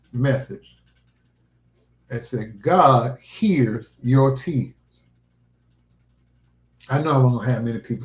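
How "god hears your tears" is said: solemn quote. Retold or imitated. Quoting God's message.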